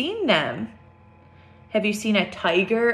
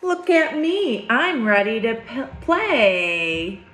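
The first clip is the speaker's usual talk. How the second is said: lifted, sing-song "Look at me"; picture book read-aloud; storybook refrain; slower than usual. A narrator's reading. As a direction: read the refrain brightly for kids. Reading the book's refrain.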